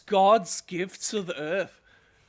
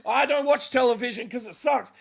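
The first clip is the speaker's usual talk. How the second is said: mock news anchor; 4 semitones higher than usual.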